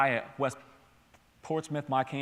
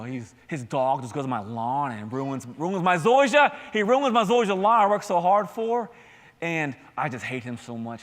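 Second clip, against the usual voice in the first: mock excuse-maker. Pastor plays a made-up man griping about his neighbor, mock whining. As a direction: act the petty neighbor-hater. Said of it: "But then it's like".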